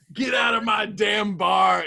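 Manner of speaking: mock angry bar owner.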